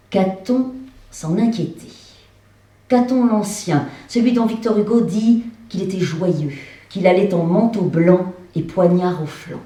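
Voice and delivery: measured recitation, phrase by phrase; literary stage reading. A narrator's reading. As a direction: read it out to an audience, deliberately. Reads the text aloud on stage. (lecture littéraire à voix haute)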